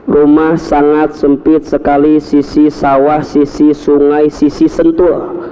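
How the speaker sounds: slow, spaced-out listing of places. Real, not acted. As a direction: lay each place down slowly, one by one. Listing his cramped home's surroundings. (lambat, disebut satu per satu)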